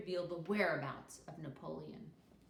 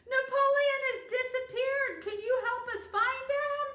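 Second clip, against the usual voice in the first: high, loud panicked plea; distressed; 13 dB louder than usual. A narrator's reading. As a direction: beg for help urgently. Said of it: "sounding very distressed".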